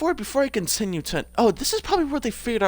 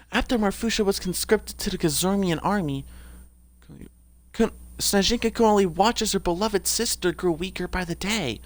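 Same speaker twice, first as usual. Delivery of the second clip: Snezhinka. Acted. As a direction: read it in a slightly raised character voice. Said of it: "I haven't really done Snezhinka's voice".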